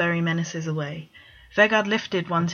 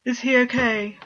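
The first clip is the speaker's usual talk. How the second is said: a mocking singsong echo of the worried question; sarcastic imitation of a fussing brother; mocking mimicry; 6 semitones higher, 3 dB louder than usual. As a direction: parrot his brother to ridicule him. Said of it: "Bord mimicked".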